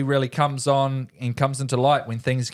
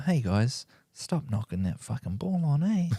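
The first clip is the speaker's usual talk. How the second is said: soft coach talk; 6 dB quieter than usual. Retold or imitated. Retelling the halftime speech to the huddled team, softly. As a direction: say it softly, like a gentle word to the team. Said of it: "He was just softly telling them".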